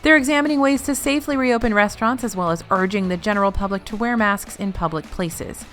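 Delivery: crisp, even newsreader delivery; news anchor voice. Acted. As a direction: read it like an evening news anchor. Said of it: "I sound like a news anchor when I do these".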